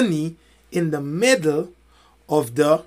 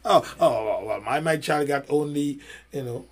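lightly voiced parent, lower and softer; hesitant complaining parent; 4 semitones lower, 4 dB quieter than usual. Parent objecting that the verdict is harsh, lightly hesitant. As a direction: stammer a mild, subdued objection.

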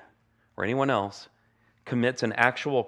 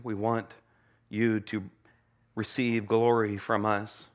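prayer. Acted. Pastor leads a prayer.

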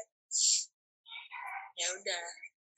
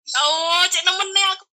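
hampir menangis; 6 semitones higher, slower than usual. Retold or imitated. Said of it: "kudu nuangis".

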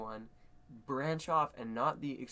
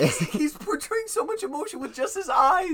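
much higher and louder, gushing with a laugh; real excitement; 13 semitones higher, 10 dB louder than usual. Real, not acted. Fan gushing to cohost about the acting, excited. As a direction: burst out in delight.

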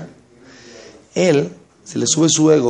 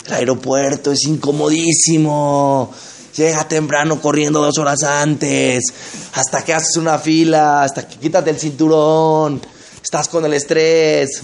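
drawn-out complaint; slower than usual. Retold or imitated. Reciting the trip's miseries to puncture fantasy.

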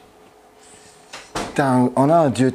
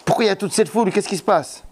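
questioning blind man; 6 semitones higher than usual. Acted. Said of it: "et demanda".

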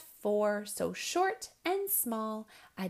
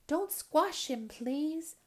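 higher-pitched owl mother pleading; hooting mother owl; 5 semitones higher than usual. Acted. Mother owl protecting her smallest, hooting. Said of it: "Mother Owl hooted".

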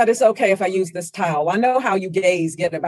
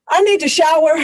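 loud; 7 semitones higher, 6 dB louder than usual. Acted. Jocelyn disgusted.

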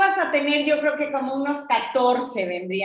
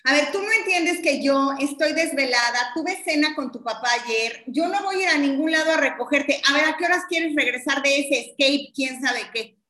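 exasperated mom scolding. Pretend. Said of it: "tú eres mi mami".

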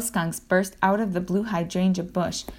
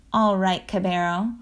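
squeaky little voice. Acted. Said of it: "Nuts said in a squeaky little voice".

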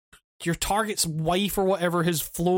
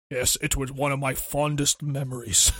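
mock solemn reply; 4 semitones lower than usual. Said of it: "Hey, my voice is like this".

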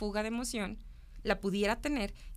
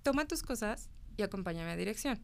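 calm teacher instruction; 4 dB quieter than usual. Retold or imitated. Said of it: "Y entonces yo decía".

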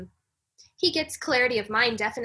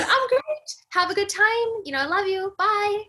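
high, sing-song carefree goodbye; mock cheery self; 10 semitones higher, 5 dB louder than usual. Telling the husband goodbye, high mock cheerfulness. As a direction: play it breezy and untroubled, pitched up.

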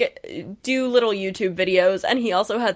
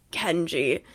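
hushed whisper; 6 semitones lower, 6 dB quieter than usual. Retold or imitated. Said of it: "And Castle's like".

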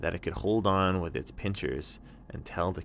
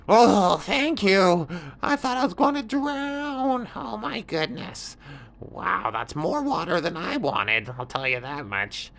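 very high squeaky little scorpion, relieved; high scorpion, rescued from water; 12 semitones higher, 6 dB louder than usual. Acted. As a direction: squeak out relief after nearly drowning.

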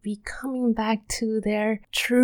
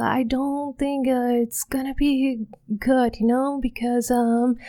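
higher, halting worried inner voice, lightly voiced; anxious voice; 3 semitones higher than usual. Shown as a demonstration. Demoing fear's inner voice to listeners, mildly anxious. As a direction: show a mild hint of nervous doubt. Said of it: "anxiousness in the voice".

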